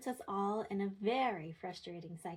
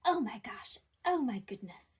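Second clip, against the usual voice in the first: loud oh my gosh, then a whispered oh my goodness; big exclamation; 3 semitones higher, 5 dB louder than usual. Shown as a demonstration. Parent making big exclamations to a child, excited. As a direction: exaggerate the surprise. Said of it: "make really big exclamations".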